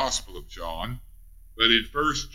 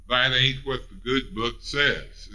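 folksy Ray County accent, lightly put on. Preacher plainly rebutting the doctrine, light Ray County accent. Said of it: "in my Ray County accent".

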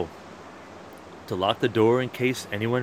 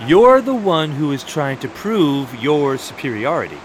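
heated retort; 8 dB louder than usual. Acted. S1 retorts in quarrel.

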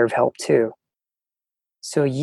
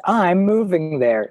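higher, slow, proudly self-assured quote; proud and sure; 5 semitones higher, slower than usual. Retold or imitated. Traveler retells telling a Londoner about the move, proud and sure. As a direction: imitate your younger, very sure self. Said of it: "So proud and sure of myself".

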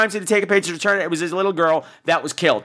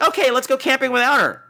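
higher, carefree mock agreement; mock breezy; 4 semitones higher than usual. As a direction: toss it off as an oblivious friend. Mocking friends' oblivious decision.

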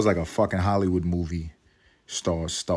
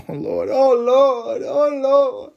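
mock exasperation; 5 dB louder, much slower than usual. Laughing at his own joke.

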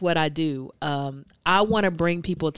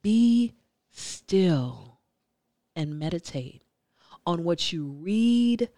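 spoken word poem. Acted. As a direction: recite it like a spoken word poet. Poet recites her name poem.

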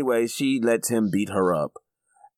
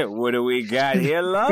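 put-on Cockney accent. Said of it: "kind of a Cockney accent".

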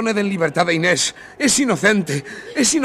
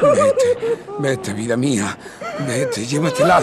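tearful farewell; 4 semitones lower, slower than usual. Acted. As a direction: push her away through tears. Adieu à Inés avant l'exécution.

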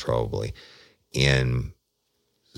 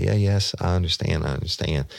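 higher voice of a crying woman, settling as it repeats; imitated crying; 6 semitones higher than usual. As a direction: lightly imitate her tearful assent, pitched up then easing down. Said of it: "rocking back and forth crying".

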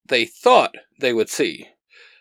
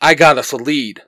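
firm, louder scolding; barking; 3 dB louder than usual. Acted. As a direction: dress him down hard. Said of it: "Xander barks".

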